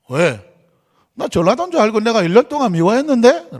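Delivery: imitated Gyeongsang lilt, swinging up and down; a hint of Gyeongsang intonation; Gyeongsang accent. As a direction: quote a colleague in sing-song Gyeongsang dialect. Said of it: "경상도 분이었어요".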